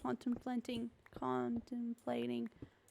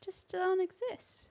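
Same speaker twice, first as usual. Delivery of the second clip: mock deadpan; 7 semitones higher, slower than usual. Joking Australians don't exist.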